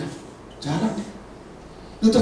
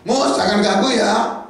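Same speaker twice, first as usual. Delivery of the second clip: loud high whining shout; angry complaint; 11 semitones higher, 4 dB louder than usual. Acted. Israelites shouting their grievance at Moses, loud and high. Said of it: "Saya udah ngomong jelas".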